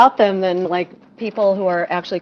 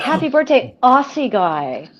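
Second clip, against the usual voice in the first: mock Australian accent; 4 semitones higher than usual. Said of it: "That's where it comes from".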